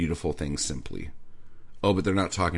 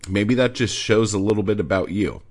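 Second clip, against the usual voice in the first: normal talking voice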